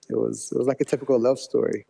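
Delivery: fond, smiling tone. Real, not acted. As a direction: smile through the words. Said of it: "I can hear the smile in your voice".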